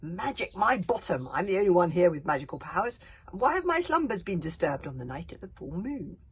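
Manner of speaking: loud indignant ranting; angry rant. Acted. Chief berserk ranting angrily at the crowd. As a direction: rant it with wounded pride.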